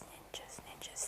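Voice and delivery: fading into a whisper. Pretend. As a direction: drop to a hushed whisper. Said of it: "Somebody is whispering in this room".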